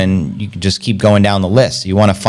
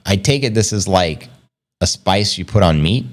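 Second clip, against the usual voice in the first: usual speaking voice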